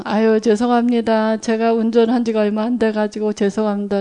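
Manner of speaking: bow your head and apologize meekly; meek apology. Retold or imitated. To the angry woman driver, a soft meek apology. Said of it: "이렇게 문 닫고".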